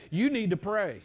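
punchy, with a little attitude on "You"; work-in-the-morning attitude, "You" hit hard. Shown as a demonstration. Preacher coaching congregation to tell neighbours, a little attitude. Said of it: "with a little attitude".

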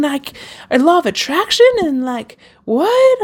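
telling her friend about Tony Robbins with rising excitement; excited retelling. Retold or imitated. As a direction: spill the news to a friend, rising to a high what.

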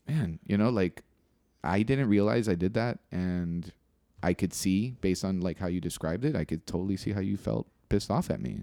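mean every word of the apology; genuine apology. Shown as a demonstration. To George, showing a heartfelt apology after listening: sincere. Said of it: "more genuine".

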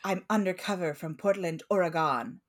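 OREGON drawn to a full "gone" at the end; outsider's mispronunciation. Retold or imitated. Imitating a lady on a show, mispronounced OREGON ending in "gone". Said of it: "you would not have pronounced it Oregon".

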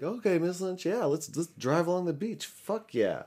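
high, loud, over-eager agreement; hammed-up cheerful yes; mock enthusiasm. Acting out his forced agreement to her.

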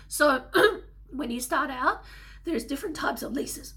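hoarse, strained voice; a croaky throat; losing her voice. Real, not acted. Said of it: "Sorry, I'm losing my voice a little bit".

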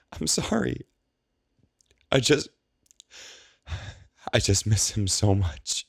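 high, breaking voice of a weeping woman; tearful. A narrator's reading. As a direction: cry it out, voice cracking high. Penelope crying over Julian.

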